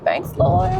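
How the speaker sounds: high-pitched, light reply; playful thanks. Retold or imitated. Playful retold reply to God.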